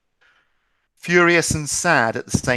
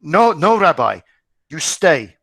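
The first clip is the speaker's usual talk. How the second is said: tearful plea; 7 semitones higher, 6 dB louder, slower than usual. Acted. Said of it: "His face was wet with tears".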